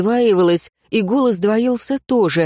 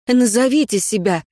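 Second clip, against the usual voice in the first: firm demand; 4 semitones higher than usual. Acted. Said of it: "повторила она".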